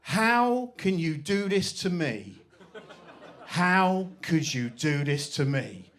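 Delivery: slow, drawn-out mock lament; milk the melodrama like a wronged teen; dramatic teen wail. Teen daughter to mother, hammed-up slow wailing. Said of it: "she turned around and she went".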